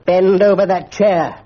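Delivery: slow, heavy, booming order; thundering command. A narrator's reading. Mister Quelch thunders his order at Bunter. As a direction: bring the house down on him. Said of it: "thundered Mister Quelch".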